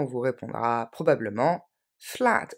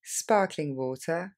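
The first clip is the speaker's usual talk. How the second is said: slow model; slower than usual. Shown as a demonstration. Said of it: "on vous proposera aussi sparkling water".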